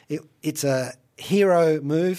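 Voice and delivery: normal talking voice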